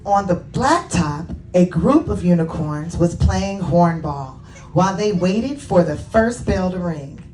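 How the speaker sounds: animated storybook reading with lifted key words; children's story narration. A narrator's reading. Author reading Layla's story to children, animated narration. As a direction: read it to children, expressively. Reads own book to children.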